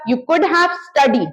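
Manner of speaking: slow, spaced words; slow model sentence. Shown as a demonstration. Teacher modelling the could-have taunt slowly. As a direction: lay it out word by word. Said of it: "third form".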